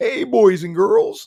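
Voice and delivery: high, loud, creepy call. Greeting viewers on stream, playfully in a Howdy Doody voice. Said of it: "Sound like Howdy Doody".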